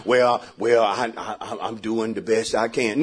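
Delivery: soft, small, laughing excuse-maker voice; mock whiny excuse. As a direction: mumble the lame excuse, half laughing. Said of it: "You try".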